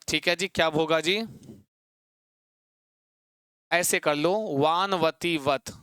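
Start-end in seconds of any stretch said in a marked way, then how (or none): 4.6-5.7 slow sound demo. Shown as a demonstration. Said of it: "पुल्लिंग में बनेगा तो कैसी ध्वनि आएगी?".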